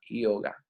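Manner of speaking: "yoga" said ee-oga; correct Sanskrit pronunciation. Shown as a demonstration. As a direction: start "yoga" on a vowel-like i. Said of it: "bien pronunciado sería".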